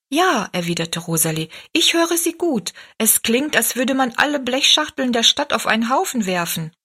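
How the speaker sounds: put-on a small girl's voice, pitched high; high little girl voice. Young Rosalie tells Tobi she hears the music, high girl's voice.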